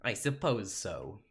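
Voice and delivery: slow, badly faked Russian accent; attempted Russian accent. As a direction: try a Russian accent, dragging the words. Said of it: "try my best to do a Russian accent".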